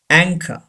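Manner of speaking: anchor as "ANG-ka", no R at the end; anchor, stressed first, ending in "ka"; silent final R. Shown as a demonstration. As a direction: say anchor with CH as k and drop the R. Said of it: "R is not pronounced".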